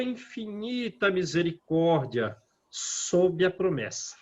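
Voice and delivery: a devout, measured recitation; prayer reading. Acted. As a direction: read the prayer reverently, letting lines fall. Reads the prayer text.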